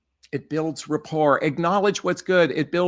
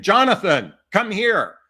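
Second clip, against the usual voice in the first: parent summoning; 5 semitones higher, 6 dB louder than usual. Retold or imitated. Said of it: "like your parents saying".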